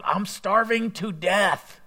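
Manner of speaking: milk the hunger like it's tragic; dramatic whine. Retold or imitated. Someone after four hours without eating, slow melodramatic mock whine. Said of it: "and at the end of the four hours going".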